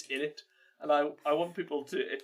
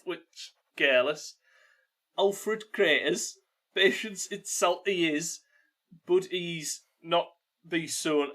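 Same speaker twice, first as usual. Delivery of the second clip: put-on Geordie accent. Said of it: "read those words in a Geordie accent".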